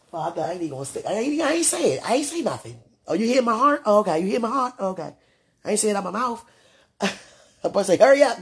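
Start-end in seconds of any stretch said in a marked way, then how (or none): 1.1-6.4 high, loud mock-defensive protest; playful protest. Real, not acted. 8.0-8.4 loud, high playful hurry-up; mock impatience. Joking impatient call.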